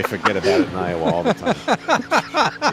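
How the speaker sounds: put-on Iowa broadcaster doing a New York accent; hammed-up New York "forget about it". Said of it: "In New York accents".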